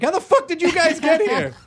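hammed-up baffled question; mock astonished local. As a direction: play an amazed local.

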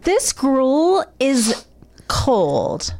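whispered petty complaint; whiny whisper. Pretend. Hostage complaining about food.

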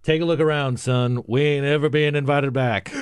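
lifted, emphatic Southern impression for a punchline; Fritz Hollings. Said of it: "and he told his, his, uh, aide".

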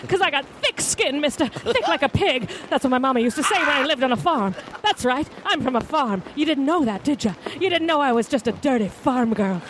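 a hint of crackle in a Southern farm-girl voice; feisty farm girl talking back to a mister, lightly crackled; crackly Southern. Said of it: "give me some crackle".

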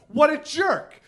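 a touch of scornful disbelief; mock disgust. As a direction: judge him like an onlooker. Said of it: "you think to yourself".

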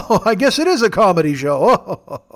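lightly voiced chuckling grandpa; a hint of a tickled old-timer; Officer Irwin. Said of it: "like you're a grandpa".

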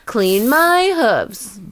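very slow pampered demand; demanding donkey. Pretend. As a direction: drawl it like a spoiled pet. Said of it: "this donkey's gonna want a lot".

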